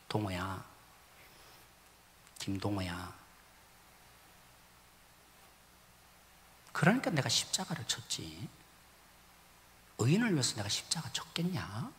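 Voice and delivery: soft, low, hushed call by name; gentle voice of God. Retold or imitated. God answers the angry pastor, soft and hushed. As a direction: speak tenderly like God answering. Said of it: "이렇게 말씀하신 거죠".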